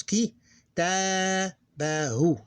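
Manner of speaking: "Ki, ta, ba, hu" in separate syllables with a long "ta". Shown as a demonstration. Teacher showing how it looks with the dot, H for T. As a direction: sound out "Ki, ta, ba, hu", ending on "hu". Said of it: "that's what you pronounce".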